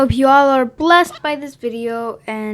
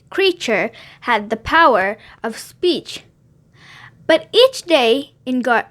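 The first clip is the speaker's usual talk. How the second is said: put-on gentle storybook reading for kids; children's story narration. A narrator's reading. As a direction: tell it like bedtime Bible story time. Reads Bible story to kids.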